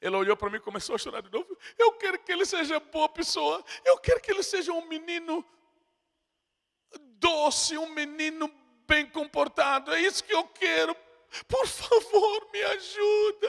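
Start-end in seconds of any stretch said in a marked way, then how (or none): 1.8-13.5 high, tearful mother begging; mock weeping plea. Preacher voicing a crying mother begging for her son, high and tearful. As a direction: plead through tears, rising to a cry.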